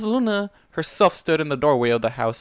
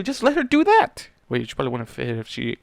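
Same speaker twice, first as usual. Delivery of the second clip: plain reading voice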